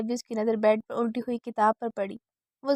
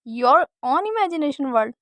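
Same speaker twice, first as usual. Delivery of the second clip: slow, louder mocking repeat; mocking echo; 3 semitones higher, 6 dB louder, much slower than usual. Older sister mocking the imagination world, slow scornful echo. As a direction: echo her words back in scorn. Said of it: "गुस्से से उसका चेहरा अब हंसी में".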